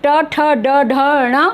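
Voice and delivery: ट, ठ, ड, ढ, ण one by one, tongue curled back; teacher modelling ट, ठ, ड, ढ, ण; pronunciation demo. Shown as a demonstration. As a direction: recite ट, ठ, ड, ढ, ण, ending on a flapped nasal. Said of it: "इसको तो सब ठीक ही बोलते".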